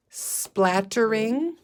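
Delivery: Splattering stretched slowly with a rising end; stretchy snaking. Shown as a demonstration. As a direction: draw out Splattering for young readers. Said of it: "stretchy snaking".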